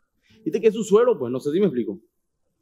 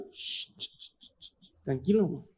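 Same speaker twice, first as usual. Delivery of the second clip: soft shushing to calm a companion; urgent little shushes, then a soft word; hushing; 4 semitones lower, 10 dB quieter, slower than usual. Acted. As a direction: hush him down quietly. David hushes his eager companion.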